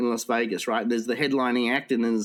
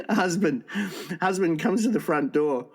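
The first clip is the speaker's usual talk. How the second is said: laughing; 5 semitones higher than usual. Real, not acted. Laughing as next joke starts.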